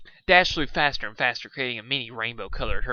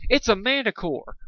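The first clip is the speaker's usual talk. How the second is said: alarmed scream; 10 semitones higher than usual. A narrator's reading. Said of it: "one of our heroes screamed".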